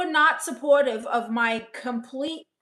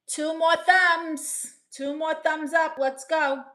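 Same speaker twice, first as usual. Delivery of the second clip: drawn-out, higher cheer for thumbs; slow, upbeat call to viewers; excited plea; 4 semitones higher, 3 dB louder, slower than usual. Real, not acted. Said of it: "asking viewers for thumbs".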